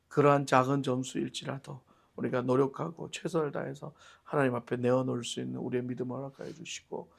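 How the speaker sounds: soft, level closing prayer voice. Acted. Preacher praying quietly for the congregation after the sermon. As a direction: pray quietly and steadily for the congregation.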